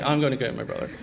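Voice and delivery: understated retelling of dad's upset resolve. Retold or imitated. Retelling dad leaving to fetch his son, mildly upset. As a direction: voice dad's determination, only mildly heated. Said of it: "he was so upset".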